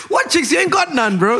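high, laughing jab; teasing him through laughter; laughing tease. Real, not acted. Mocking his friend's dating life, laughing high.

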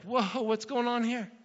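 slow down in mild disbelief as a newcomer; mock surprise. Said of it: "He's like".

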